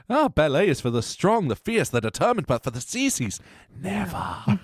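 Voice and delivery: high, fierce dramatic declaration; fierce ballet teacher. Retold or imitated. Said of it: "her fierce passion and determination".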